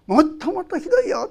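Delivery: as God, stress how much worse it is; God's voice. Pretend. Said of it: "って".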